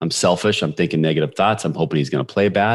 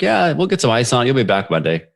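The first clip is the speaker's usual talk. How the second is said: mock high school trainer, pitched higher; imitating the trainer; 6 semitones higher than usual. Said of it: "Trainer's like, typical high school trainer".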